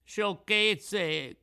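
high, loud puppet shout; indignant cry. A narrator's reading. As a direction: cry it out in dismissal. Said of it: "gridò Pinocchio".

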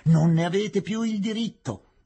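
high, loud objection; heated protest. Acted. Objector denies the prosecutor's right, heated and loud. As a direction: protest forcefully over the uproar.

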